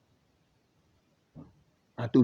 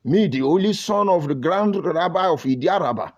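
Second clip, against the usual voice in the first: mock Yoruba praise; 2 semitones higher than usual. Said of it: "you will hear them talk like".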